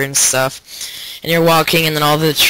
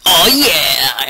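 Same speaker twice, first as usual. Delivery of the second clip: drawn-out, swooping celebration; playful acted-out whoop; mock triumphant cheer; 4 dB louder than usual. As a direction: imitate a game hero's victory cry. Voices Duke Nukem celebrating.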